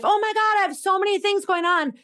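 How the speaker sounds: hammed-up overwhelmed wail; overwhelmed person. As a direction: play the swamped client. Voicing overwhelmed client.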